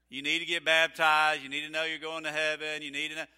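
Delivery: mock nagging, pressing him to be baptized; nagging wife.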